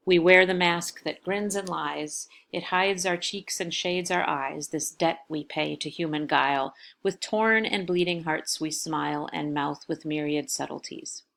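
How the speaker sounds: measured, even poetry reading; poem recitation. Acted. Teacher reading a Dunbar stanza to students, in a calm, measured voice. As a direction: read the stanza aloud with care.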